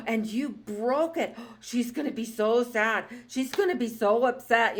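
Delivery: lightly voiced mom with gasps, mock dismay; hammed-up shocked mother; dramatic mom. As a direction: gasp and play up the tragedy to the child. Mom scolding-dramatizing to little sister.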